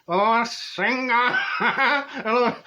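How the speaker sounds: slow and high, breaking into a laugh on hello. Retold or imitated. Gleefully greeting the skinny dippers to Senga, laughing. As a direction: savour the moment with a giggle. Delighted at the naked boys.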